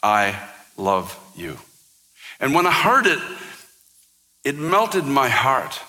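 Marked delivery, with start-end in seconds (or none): 0.0-1.6 hushed divine tenderness; tender voice of God. Retold or imitated. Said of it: "this tender voice".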